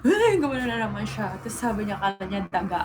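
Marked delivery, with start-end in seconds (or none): 0.1-1.3 laughing quote. Retold or imitated. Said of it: "nagulat siya nung hinila ko".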